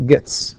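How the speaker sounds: "gets" ending in ts; voiceless final S. Shown as a demonstration. Teacher pointing out the pronounced s, voiceless ending. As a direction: keep the last sound of "gets" unvoiced. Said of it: "وتنطق س".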